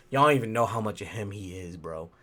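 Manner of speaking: ordinary talk, nothing marked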